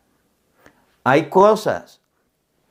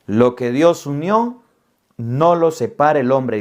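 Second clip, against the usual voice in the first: slow, measured ritual recitation; a priest slowly reciting the marriage vow; solemn liturgical formula; slower than usual. Retold or imitated. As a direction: intone it like the wedding rite.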